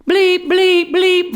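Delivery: a sudden hammed-up yell of censored swearing; mock cursing shout. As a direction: fire the bleeps back like a curse. Mimicking the man's cursing back.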